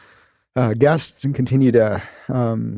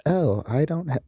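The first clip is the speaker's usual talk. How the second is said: lightly mocking, a bit higher-pitched; 4 semitones higher, 4 dB quieter than usual. Podcast host imitating a listener with an excuse, mockingly. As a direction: gently make fun of a hesitant listener. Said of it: "I shouldn't use a mocking voice".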